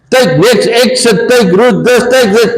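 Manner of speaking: light robotic sat-nav; mock GPS voice. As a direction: imitate the car's sat-nav reading directions. Imitating GPS directions.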